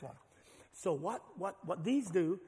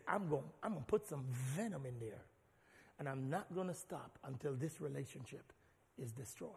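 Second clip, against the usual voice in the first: sly enemy; 4 semitones lower, 6 dB quieter than usual. Acted. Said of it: "And he says".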